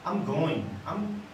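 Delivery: low, very soft and hesitant; inverted intonation, unsure. Shown as a demonstration. Teacher inverts the intonation for students, low and unsure. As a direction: murmur it as if not committed. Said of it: "eu posso inverter a minha intenção, minha entonação".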